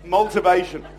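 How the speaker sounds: "Motivation" said as "multivation"; made-up word. Shown as a demonstration. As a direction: put an L into "Motivation": "mul-tivation". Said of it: "It's a new word".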